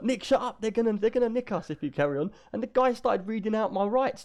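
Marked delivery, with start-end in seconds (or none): 0.0-2.3 hushing Nick. Retold or imitated. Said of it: "She was like".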